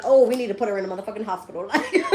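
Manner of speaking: mock the office staff, breaking into laughter; laughing mock quote. Client mocking office staff's overreaction, laughing mock quote.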